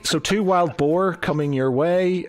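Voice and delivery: lightly voiced innkeeper, lifted pitch on questions; a hint of an eager innkeeper; obliging innkeeper. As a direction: play a helpful host taking orders. Game master voices the innkeeper.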